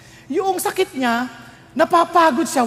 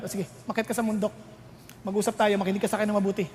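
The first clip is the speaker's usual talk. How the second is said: soft God voice; 3 semitones lower, 8 dB quieter, faster than usual. Acted. God answering softly.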